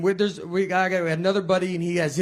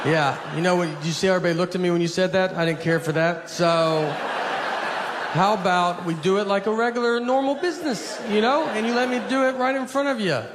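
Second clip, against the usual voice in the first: mock scolding. Scolding Starbucks barista.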